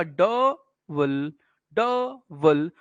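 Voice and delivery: "डबल" very slow, split into a long "ड" and short "बल"; two separated, drawn-out takes of "डबल"; stress on first syllable. Shown as a demonstration. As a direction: draw out the opening of "डबल", pause, then let "बल" drop. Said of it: "पहले stress आएगा".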